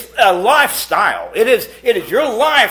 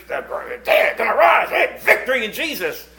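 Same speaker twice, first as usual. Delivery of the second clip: hammed-up barn-burner preaching, a shout; playing the fiery preacher he expected; mock preacher; 4 semitones higher than usual. Preacher imitated for the congregation, mock fiery shout. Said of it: "we're gonna get a barn burner".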